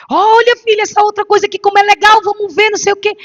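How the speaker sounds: high, sing-song mom voice; mother luring her crying girl to another toy, sing-song; distracting mother. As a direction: coax the toddler with a bright lure.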